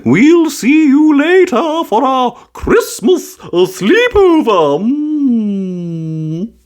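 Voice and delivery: high, comforting granny voice; a kindly grandma soothing a child; bright, gentle old-lady reassurance; Granny Pig's voice. A narrator's reading.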